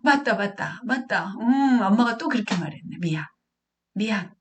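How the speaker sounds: lightly acted parent readily agreeing; readily conceding. Mother admitting her slip to the child, willing apology. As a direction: play a mother owning up willingly. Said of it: "흔쾌히 들어준다는 거죠".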